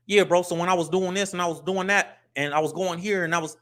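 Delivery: a touch of street-corner talk; casual hood way of talking. Shown as a demonstration. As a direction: talk like you're back in the hood. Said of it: "in the hood, we talk like this".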